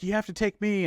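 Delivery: high-pitched mock pleading; desperate plea. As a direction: beg the pilot, played for laughs. Survivor pleading in retold scene.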